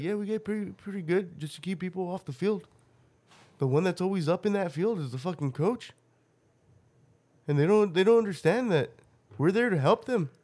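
put-on Canadian accent. Imitating the get back coaches, light Canadian accent. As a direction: speak like an earnest Canadian guy. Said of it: "They're like".

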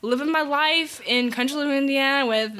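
high-pitched mock exasperation; exasperated protest. Daughter complains of knowing no relatives, mock exasperation. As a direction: protest helplessly, played up. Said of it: "I'm just like".

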